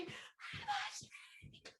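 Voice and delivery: very slow, stretched whispered shout; whisper yell. Shown as a demonstration. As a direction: yell it without voice, all whisper. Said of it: "We are going to all whisper yell".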